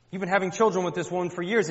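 fast, high, loud reproach; exasperated wife. Acted. Wife accusing husband over the other woman's children, exasperated. Acted wife's quarrel with husband.

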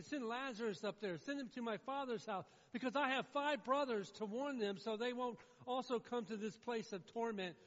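loud, high acted plea; imitated pleading at full voice; begging. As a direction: press the request urgently, as a preacher voicing a beggar. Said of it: "Now he's begging".

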